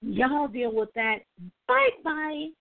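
breezy mock farewell; dismissive goodbye. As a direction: Meghan Markle leaving everyone behind, sing-song dismissive. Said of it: "I guess she's like".

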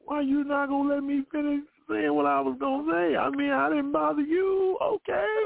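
exasperated protest. Real, not acted. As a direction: insist on finishing, voice climbing.

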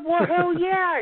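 emphatic retold reply. Telling the caller off, a high emphatic burst. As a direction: fire it back with cocky pride.

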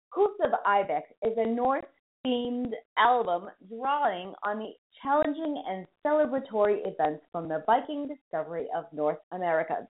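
"Hooves of Ibex is a Norse-themed" read slow and deliberate; slow careful read. Shown as a demonstration. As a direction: take "Hooves of Ibex" slowly, each word placed. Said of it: "There, I did it!".

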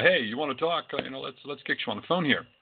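breezy make-believe phone call; mock phone call. Pretend call to spirit world.

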